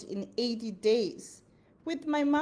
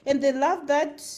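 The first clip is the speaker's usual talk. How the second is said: louder, in a Nigerian accent; 4 semitones higher, 6 dB louder than usual. Shown as a demonstration. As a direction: put on a Nigerian accent for the phrase. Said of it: "they love that in my Nigerian accent".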